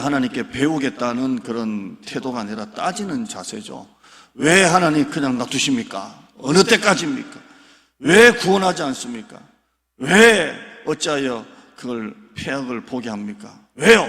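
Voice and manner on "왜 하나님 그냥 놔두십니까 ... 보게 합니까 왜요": higher, louder demanding questions; confrontational demand. Retold or imitated. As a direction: challenge God as if arguing. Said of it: "따지는 자세입니다". (하나님께 따지는 반항적인 어조)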